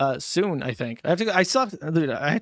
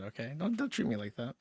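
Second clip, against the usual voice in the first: mock hurt; 4 semitones lower, 12 dB quieter than usual. Mock hurt, trailing off softly.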